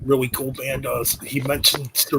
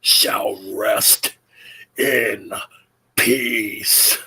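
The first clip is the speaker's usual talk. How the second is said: Undertaker impression; 4 semitones lower, much slower than usual. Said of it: "There you go".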